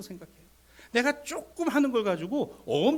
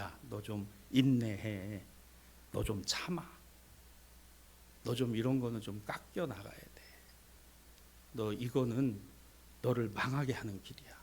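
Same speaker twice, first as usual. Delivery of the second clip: low, hushed, measured counsel; gentle admonishing; 9 semitones lower, 9 dB quieter than usual. Acted. God quietly urging a believer to endure, low gentle admonishing. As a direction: counsel softly and low, leaving room between phrases.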